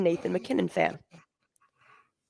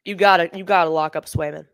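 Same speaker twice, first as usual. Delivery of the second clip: talking around a cough drop; words muffled by a lozenge; mouth full; 3 semitones lower, 3 dB louder, faster than usual. Real, not acted. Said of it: "I have a cough drop in my mouth".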